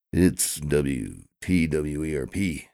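slow spelled call letters. Acted.

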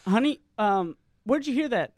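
nurse voice. Retold or imitated. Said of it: "she said".

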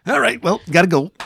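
high, loud, comic brush-off; suddenly bail out of a tender moment; mock abrupt exit.

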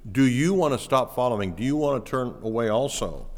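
"you" picked out as the emphasized word; stress on YOU. Shown as a demonstration. Preacher showing the emphasis in the Greek question, stress on "you". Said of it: "there's an emphasis on the word you".

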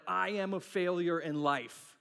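drawn-out, self-pitying declaration; slow, overdramatic verdict on yourself; melodramatic. Retold or imitated. Pastor mimics himself overreacting to failing at something, melodramatic. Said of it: "I can get really dramatic really quickly".

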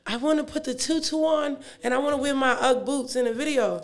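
put-on child voice. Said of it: "my daughter was like".

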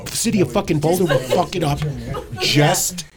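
laughing rant. Real, not acted. Ranting about the city.

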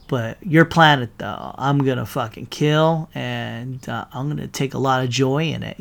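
a hint of quiet menacing Thanos; softly threatening, lightly voiced; calm menace. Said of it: "But then he goes".

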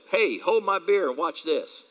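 a hint of a cocky guy showing off, high and loud; mock a braggart about to do something dumb; lightly voiced daredevil dare; reckless bravado.

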